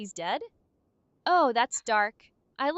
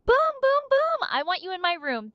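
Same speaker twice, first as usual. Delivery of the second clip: deadpan sarcastic; 6 semitones higher, 4 dB louder than usual. Pretend. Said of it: "In a completely deadpan, sarcastic tone".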